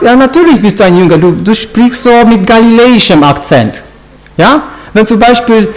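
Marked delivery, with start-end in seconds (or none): 0.0-3.8 quick, certain finger-pointing; mild accusation. Acted. Bystander exposing Peter by his Galilean accent, mildly accusing. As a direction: rattle it off as an obvious giveaway.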